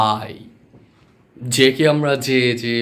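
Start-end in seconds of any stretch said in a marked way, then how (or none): 0.1-0.3 "আই" starting firm, then easing soft; drawn-out "আই", firm onset and gentle glide; corrected letter I. Shown as a demonstration. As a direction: say "আই" hard first, then let it soften. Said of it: "তারপরে নরম, তারপর আবার শক্ত".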